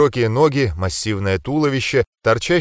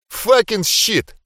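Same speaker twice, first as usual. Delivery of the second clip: slow, high stunned curse; stunned swearing; 9 semitones higher, much slower than usual. Acted. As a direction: drag out the shock. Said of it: "в голосе Манника столько охреневания".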